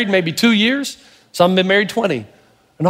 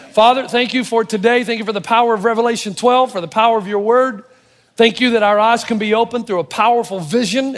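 pastor's steady closing prayer. Acted. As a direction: pray it sincerely to close.

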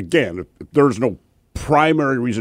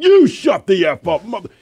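retold yell back; 9 semitones higher, 4 dB louder than usual. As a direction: bark it back at the unseen guy. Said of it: "I'm like".

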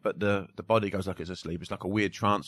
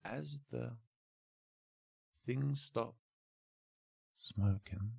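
slow, soft hypnotist voice with long pauses; hypnotic trance voice; 2 semitones higher, 5 dB quieter, slower than usual. Shown as a demonstration. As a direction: lull them, word by word, into trance. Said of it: "it's a weird sort of voice I'd use".

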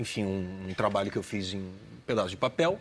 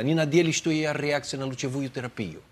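rapid, fluent run of Russian; teacher's Russian at natural speed; imitating Russian coach; 3 semitones higher than usual. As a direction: reel off the Russian line without breaks. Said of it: "Fala devagar pra mim".

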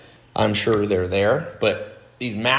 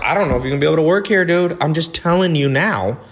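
higher, louder and fast, no sugarcoating; rapid-fire blunt warning, raised and loud; blunt to an employee; 7 semitones higher, 5 dB louder, faster than usual. Retold or imitated. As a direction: lay it straight on the employee, quick and pointed. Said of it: "I'm, like, way more blunt".

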